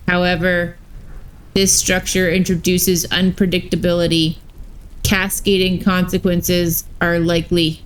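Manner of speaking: lightly voiced robot warden; even, mechanical robot delivery. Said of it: "had robot voices".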